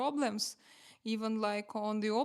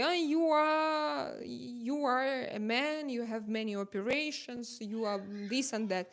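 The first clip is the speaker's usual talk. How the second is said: mock hater. Streamer quotes haters who attack her, mock accusing. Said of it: "They say".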